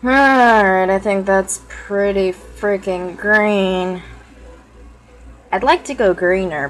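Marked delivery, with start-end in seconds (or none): 0.0-4.0 excited. Real, not acted. Proud of green makeup.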